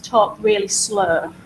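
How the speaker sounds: slow, drawn-out delivery; deliberately slow. Shown as a demonstration. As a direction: stretch the words out slowly. Illustrating talking slowly on video.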